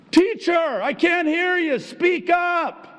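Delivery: very high, loud shouted yell. Recalling the first day of high school, yelling at a monotone teacher: yelling. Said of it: "I yelled at him".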